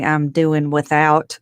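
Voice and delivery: a hint of a cantankerous old granny; ornery granny. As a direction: imitate granny's slow, drawn-out comeback. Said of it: "'cause she was ornery".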